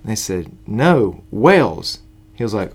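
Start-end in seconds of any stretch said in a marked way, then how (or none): 0.7-2.0 lightly put-on British accent, pitched up; short, louder British-accented correction; touch of British accent for the joke; British type accent. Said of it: "a British type accent".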